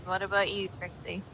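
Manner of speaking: ordinary talk, nothing marked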